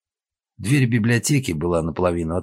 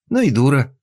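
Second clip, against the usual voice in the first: scornful jeer; 8 semitones higher, 7 dB louder than usual. A narrator's reading. Yulia mocks from the room.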